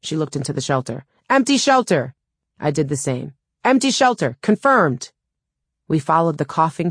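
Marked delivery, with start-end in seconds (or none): 1.3-2.1 high-pitched projected announcement; raised procedural call with falling end. A narrator's reading. Calling out shelter check. 3.6-5.1 high-pitched projected echo of the check; raised procedural call, falling on each phrase; calling out confirmation. A narrator's reading.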